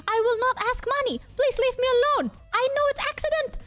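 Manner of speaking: high, frantic mock pleading; about to cry. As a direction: repeat the plea in rising hammed-up panic. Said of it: "I was, like, about to cry".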